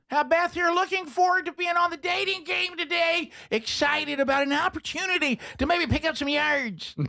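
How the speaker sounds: high, cheesy TV host voice; game show host voice. Pretend. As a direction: play an over-the-top dating show host. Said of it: "we have Beth Mowins".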